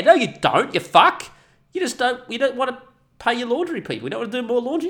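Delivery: high, loud accusing yell; angry shout. Real, not acted. Shouting back at the hotels, high and angry. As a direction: yell it at them.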